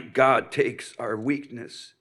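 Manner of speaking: real throat trouble, as if choked up; sounds like crying. Real, not acted. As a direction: struggle through a bad throat, as if tearful. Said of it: "I sound like I'm crying now".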